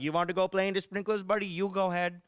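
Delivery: easygoing mock Indian-accented dad; lightly voiced Indian-accent dad; dad's Indian accent. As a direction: play an indulgent father with an Indian accent. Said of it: "He's like".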